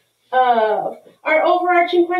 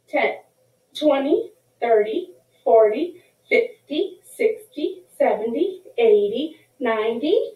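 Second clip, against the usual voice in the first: put-on teaching a child to count. Shown as a demonstration. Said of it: "count these by tens the regular way".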